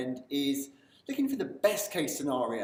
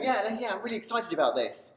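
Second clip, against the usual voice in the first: high, eager burst of enthusiasm; excited; 6 semitones higher than usual. Acted. Coach acting out being excited alone in a room, excited. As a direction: gush it like you can barely contain it. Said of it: "me being here going".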